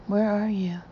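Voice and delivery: gentle, coaxing question; soft voice. A narrator's reading. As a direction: ask it softly, coaxing. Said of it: "switching from a soft to a hard voice".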